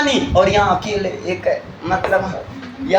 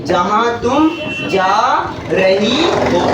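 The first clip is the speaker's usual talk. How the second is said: sarcastic retort; much slower than usual. Pretend. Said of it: "अरे sorry".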